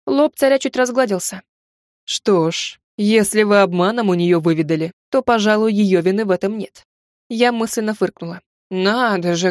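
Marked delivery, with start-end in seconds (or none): 2.0-6.9 lightly voiced stern tsar. Tsar's lower voice.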